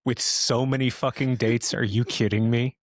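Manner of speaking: mock outrage. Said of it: "Oh my God".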